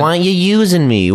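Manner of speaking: put-on high, slow, caricatured Jewish accent; mock Jewish accent. Fridge complaining to its owner, hammed-up Jewish accent. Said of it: "It was a little bit Jewish".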